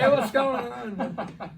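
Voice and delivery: high, loud, slow chirpy hello; loud, high, slow fake-friendly hello; mock friendly greeting. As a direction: greet him with fake cheer, laughing. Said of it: "Yeah, yeah".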